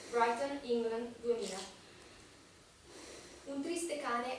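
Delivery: measured Italian verse recital; deliberate poetry-reading voice in Italian; poem reading. Acted. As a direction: recite it line by line with clear pauses. Reads their Italian poem aloud.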